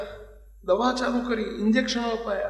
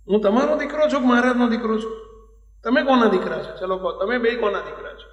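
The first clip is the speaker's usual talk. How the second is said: raised-voice questioning, lightly acted child; retold boy's challenge; 5 dB louder than usual. Sick son challenges his parents, retold in a raised voice. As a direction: loudly press the question, as the boy.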